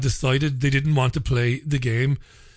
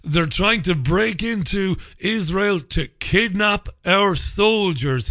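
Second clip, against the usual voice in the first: slow, mocking imitation of a politician; mocking Netanyahu; 5 semitones higher, slower than usual. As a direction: drag it out like a smug politician, lightly voiced. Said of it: "he said".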